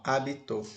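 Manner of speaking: "habitou" said a-bi-TÓ, final syllable stressed; stress on last syllable. Shown as a demonstration. Teacher recaps the past-tense form, stress on the last syllable. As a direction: put the weight at the end of "habitou". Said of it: "A sílaba tônica agora está no, na última sílaba".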